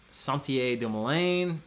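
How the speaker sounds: Sentier du Moulin said slowly with a French accent, nasal an in Sentier; slow careful French pronunciation of Sentier du Moulin. Shown as a demonstration. Streamer shows off his French to a Canadian viewer, French accent. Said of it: "Don't you love my French accent?".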